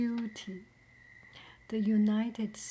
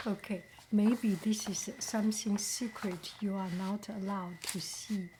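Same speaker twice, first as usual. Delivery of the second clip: ASMR whisper. Acted. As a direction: hush each word as if sharing a secret. ASMR whisper opening mail.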